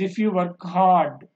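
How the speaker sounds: slow clause, "hard" held open; rising tone. Shown as a demonstration. Teacher shows an incomplete sentence, rising tone. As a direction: stretch "hard" as an unfinished thought. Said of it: "rising tone పెట్టాను".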